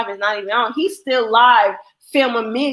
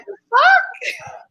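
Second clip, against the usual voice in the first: whispered disbelief. Retold or imitated. Whispered reaction.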